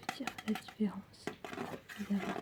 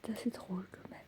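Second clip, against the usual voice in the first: ASMR whisper. Acted. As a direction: whisper it gently.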